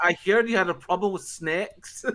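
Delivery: "heard" rising high in a sing-song mock Irish lilt; a playful lilting Irish accent for the saint's snakes. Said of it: "when you were saying "I heard".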